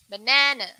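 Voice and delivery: banana said as buh-NAH-nuh, stress on the middle syllable; correct pronunciation. Shown as a demonstration. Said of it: "That is the correct way".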